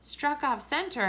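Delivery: usual speaking voice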